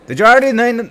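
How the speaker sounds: put-on high, loud old-time newsman; fifties Dateline reporter. Reporter questioning the cop, high and loud fifties style. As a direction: attempt an old-timey radio reporter's voice. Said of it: "like the fifties style Dateline".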